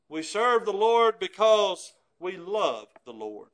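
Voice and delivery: serve pressed, each word spaced out slowly; slow climactic declaration; slow, weighty emphasis. Acted. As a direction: lay it down slowly like the final truth. Climax of the list of motives.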